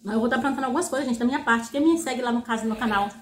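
talking between bites; chewing while speaking; mouth partly full. Real, not acted. Seen 0: Hand-feeds fries into mouth between phrases, speaking with food present.

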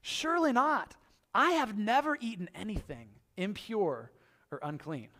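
mild pleading refusal; Peter protesting. Retold or imitated. Peter talking back to the Lord, mild shocked protest. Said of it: "He says".

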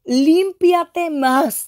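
high, drawn-out proclamation; prophetic command. Retold or imitated. Preacher voices the Holy Spirit commanding cleansing, high drawn-out proclamation. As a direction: stretch each word into a ringing, slow cry.

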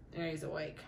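ordinary talk

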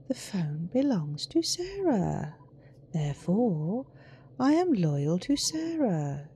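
slow, deliberate, swooping cadence; coldly formal phone. Acted. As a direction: spell it out loftily, word by word. Reads out the phone's answers.

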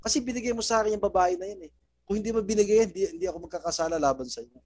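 Adam blaming God for giving him Eve; Adam making excuses. Retold or imitated. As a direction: rush through it, pushing the blame away. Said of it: "Ang pagkabanggit pa po".

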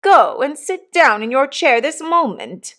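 high, imperious maternal command; crushing dignity. A narrator's reading. Missus Pocket sending Jane to her chair, imperious. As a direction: order the child with crushing dignity. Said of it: "dignity was so crushing".

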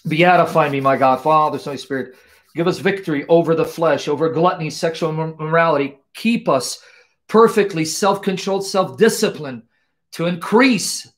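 earnest prayer voice, pleading and devoted; fervent prayer. Acted. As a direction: pray aloud to God with full devotion. Prayer resumes.

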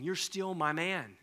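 builds loud and high on believe; rising affirmation. Retold or imitated. Jesus restoring Peter, building to a loud affirmation. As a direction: lift it to a ringing promise.

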